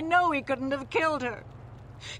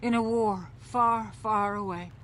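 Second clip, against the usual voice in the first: Star Wars reference; 4 semitones lower than usual. Acted. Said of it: "I see what you did there".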